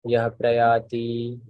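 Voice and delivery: very slow, separated words; staccato. Shown as a demonstration. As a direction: recite slowly for students to follow. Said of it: "one word at a time first".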